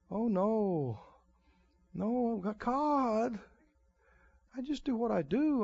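soft, hesitant mock dithering; timid excuses. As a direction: hem and haw like someone scared of the call. Mocking timid excuses to God.

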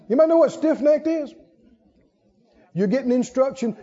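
usual speaking voice

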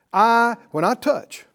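bold, slow statement of certainty; definite declaration. Shown as a demonstration. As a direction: declare it like it's already done. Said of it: "Do you hear how definite that is".

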